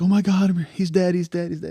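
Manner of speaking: high, loud, urgent exclamation; imitating a frantic witness; retold panicked cry. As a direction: blurt out alarming news, loud and high.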